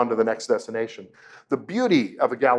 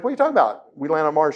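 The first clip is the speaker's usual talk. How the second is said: baffled disbelief; 5 semitones higher, faster than usual. Retold or imitated. Son baffled by mother.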